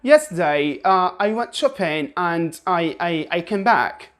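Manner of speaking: sing-song British intonation; British tune, stretching "Yesterday"; British melody. Shown as a demonstration. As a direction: lilt it like a British speaker. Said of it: "British people would say".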